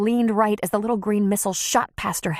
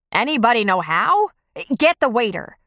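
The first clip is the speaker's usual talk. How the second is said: urgent call; 4 semitones higher, 5 dB louder than usual. Acted. Panicked diners calling out.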